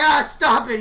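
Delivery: loud whiny cry; mock scream. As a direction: yell at the crowd to stop. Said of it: "He's screaming".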